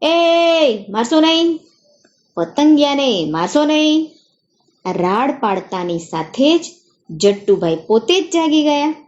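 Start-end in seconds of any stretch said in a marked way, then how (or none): 0.0-4.1 mild shout. Acted. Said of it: "મોટેથી બૂમ મારી".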